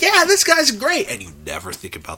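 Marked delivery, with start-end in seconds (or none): 0.0-1.1 bar guy voice. Retold or imitated. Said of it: "someone you meet at a bar who's like".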